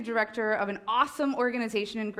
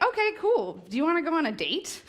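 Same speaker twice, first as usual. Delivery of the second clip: higher, quick and breezy husband imitation; casual invitation; 4 semitones higher than usual. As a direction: toss off the date invite like it's nothing. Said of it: "He's like".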